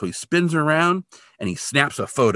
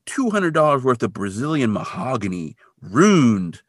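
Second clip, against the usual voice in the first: put-on funny-talking old guy; 4 semitones higher, slower than usual. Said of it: "the guy talks funny".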